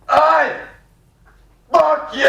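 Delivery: high, explosive Scottish shout; Scottish swearing. Retold or imitated. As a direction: yell it like an irate Scot out the car window. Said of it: "an actual interaction that I saw between two Scottish men".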